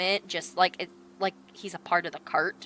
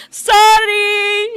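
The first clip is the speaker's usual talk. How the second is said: higher, louder called-out sorry; quick apology; 11 semitones higher, 11 dB louder than usual. Acted. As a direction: call back while bounding past. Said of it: "he's like".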